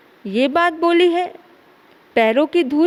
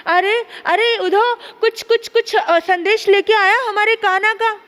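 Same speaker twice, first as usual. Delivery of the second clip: eager; 5 semitones higher than usual. Acted. Gopis eagerly greet Uddhav.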